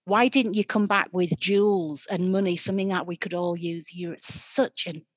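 loud, furious berating; angry scolding stepmother. Acted. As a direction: tear into her, shouting.

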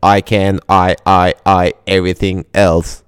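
lightly voiced chatbot bloke; a hint of a male bot character; Bob voice. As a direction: read the bot's line with deliberate word breaks. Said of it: "you better do a Bob voice".

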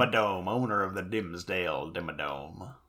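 low southern accent, playing a cartoon owner. Co-host joking about Jinzo's voice, low mock southern accent. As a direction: introduce yourself grandly in a low southern accent. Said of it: "with a southern accent".

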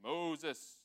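name called with a long-held vowel; calling out. Acted. God from the burning bush to Moses, calling out. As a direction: call it out slowly and let it fall. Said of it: "I always imagined it like that".

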